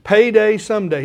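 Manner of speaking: payday someday called out loud; proclaimed title. Shown as a demonstration. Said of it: "go Google R G Lee".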